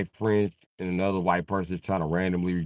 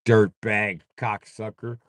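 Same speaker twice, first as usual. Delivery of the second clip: mock angry threat; 3 semitones higher than usual. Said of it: "He'd be like".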